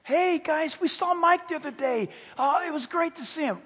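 light, chatty mock small talk; acted friendly chat. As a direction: play the breezy friend catching up. Acted friendly chat before gossip.

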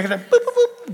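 quick high boops; imitated scanner beep. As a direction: mimic a forehead thermometer beeping. Imitates forehead scanner beeps.

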